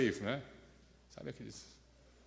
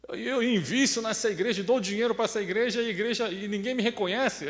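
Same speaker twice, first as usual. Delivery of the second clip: resentful complaint; 4 semitones higher than usual. Retold or imitated. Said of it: "Imagina a chateação desses dois diáconos".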